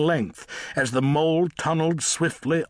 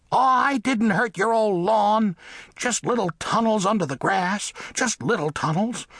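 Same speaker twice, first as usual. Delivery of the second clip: high, small mole voice, defensive; protesting mole; 7 semitones higher than usual. Acted. Mole excuses his tunnels to the cat, protesting. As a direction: plead innocence as a high-voiced little mole.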